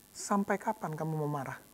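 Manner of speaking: low, soft question from within; God asking him quietly how long he will stay angry. Acted. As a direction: ask gently, almost inwardly. God speaking in the heart.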